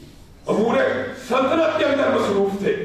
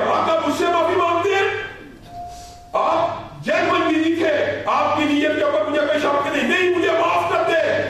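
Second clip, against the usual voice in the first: tearful protest; 6 semitones higher than usual. Retold or imitated. Young man cries out in protest.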